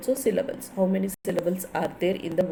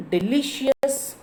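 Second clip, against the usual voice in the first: delicious said slowly and higher, LICIOUS stressed; 4 semitones higher, slower than usual. Shown as a demonstration. Teacher showing students the stress, delicious with LICIOUS lifted. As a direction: lift and stretch the LICIOUS in delicious. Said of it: "delicious is the stressing".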